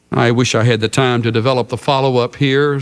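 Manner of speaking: usual speaking voice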